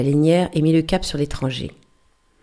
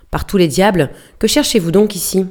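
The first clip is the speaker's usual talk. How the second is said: loud angry outburst; roaring in sudden anger; 3 semitones higher, 5 dB louder than usual. Acted. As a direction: bark it out in a burst of anger. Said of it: "rugit l'autre dans un brusque mouvement de colère". (rugir de colère)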